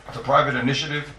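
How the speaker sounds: "private" picked out with emphasis; stress on private. Shown as a demonstration. Teacher rewording the point for students, "private" stressed. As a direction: put the weight on "private". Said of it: "I stress the word private".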